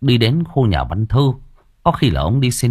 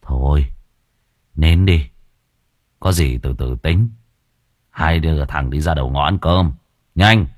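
sighing; 5 semitones lower than usual. A narrator's reading. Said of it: "Yên thở dài".

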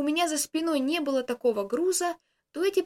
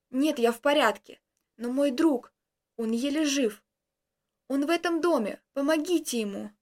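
stammering. Acted. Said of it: "кое-как выговорил я, заикаясь".

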